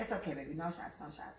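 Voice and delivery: put-on calm the scared kid, gently; soothing nurse. Nurse soothing a frightened child, softly imitated. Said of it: "The lady kept telling me".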